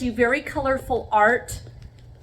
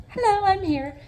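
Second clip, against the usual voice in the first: high, louder call to someone in another room; 10 semitones higher, 3 dB louder than usual. Real, not acted. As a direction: sing out to let them know you're here. Answering someone calling off-camera.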